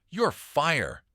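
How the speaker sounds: shouted answer to the riddle; excited shout. A narrator's reading. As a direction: call out the answer in a burst of triumph. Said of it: "he shouted out".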